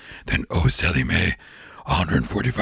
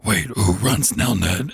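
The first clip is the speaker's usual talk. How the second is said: Satan voice; 3 semitones higher, slower than usual. Retold or imitated. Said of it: "And he's like".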